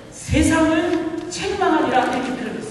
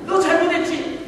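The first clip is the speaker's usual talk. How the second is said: higher-pitched, mildly acted scolding; strong rebuke; 3 semitones higher than usual. Preacher voicing the Spirit reproving people for wrongdoing, firm rebuke. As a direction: press the rebuke firmly, as a preacher illustrating it. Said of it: "라고 강하게 비판하는".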